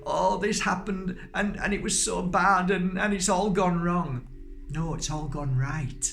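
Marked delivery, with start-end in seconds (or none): 0.0-4.3 mock complaint. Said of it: "There is no such thing as".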